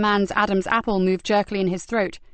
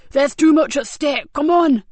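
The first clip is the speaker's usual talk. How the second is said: urgent shouting; 6 semitones higher, 7 dB louder than usual. Acted. Cox fleeing, urgent.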